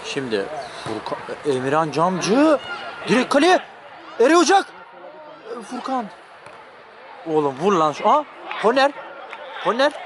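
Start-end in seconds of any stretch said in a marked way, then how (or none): 3.1-9.9 excited commentary. Real, not acted. Live commentary, chance on goal.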